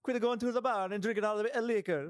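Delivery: high greedy cartoon boss; squeaky money-hungry boss. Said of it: "just Mister Krabs?".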